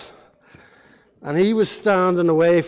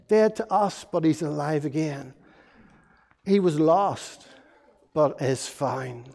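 sad, tender father. Acted. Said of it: "the father was really sad".

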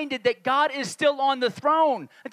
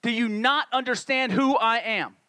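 exasperated rebuke. Acted. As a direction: take them to task with measured emphasis. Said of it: "the way I creatively hear it when I read".

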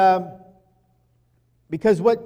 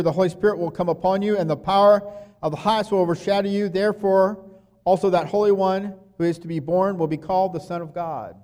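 1 scripture reading; 2 semitones higher, 3 dB louder than usual. Acted. Reading scripture aloud quickly.

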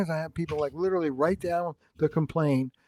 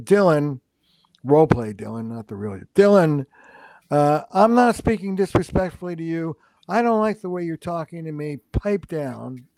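blunt way. Shown as a demonstration. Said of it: "That's one way of saying it".

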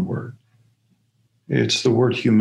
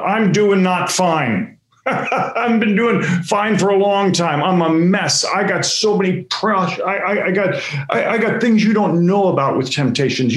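mask-off outburst; 5 semitones higher than usual. Retold or imitated. Ripping off his mask, confessing to the room.

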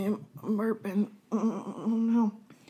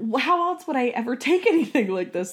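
exasperated retort; 6 semitones higher, 3 dB louder than usual. Retold or imitated. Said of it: "and it's like".

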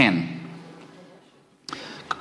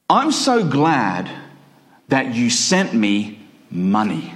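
"money" set apart after a pause; slow build to an isolated, weighted "money"; stress on money; 4 semitones lower, slower than usual. Shown as a demonstration. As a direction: land the weight on the final word "money". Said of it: "Emphasis on the money".

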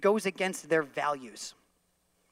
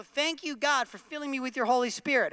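preacher prayer line; 6 semitones higher than usual. Pretend. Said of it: "or I can say".

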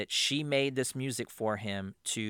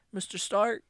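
Spider-Man voice; 9 semitones higher than usual. Retold or imitated. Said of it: "sad part where he's like".

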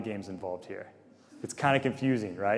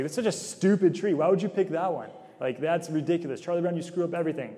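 mocking kids; 5 semitones higher than usual. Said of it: "everyone kinda makes fun of him".

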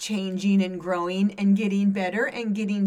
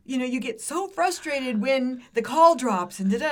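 comedian's rant; 2 semitones higher, 3 dB louder than usual. Retold or imitated. Retelling a comedian's phone skit to a co-host, mildly ranting. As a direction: imitate a comic going off in exasperation. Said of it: "he just went off on this thing".

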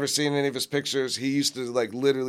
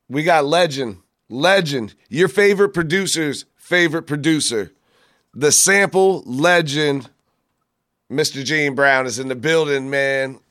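announcing the guest, loud and slowed; hype intro; 4 dB louder than usual. Real, not acted.

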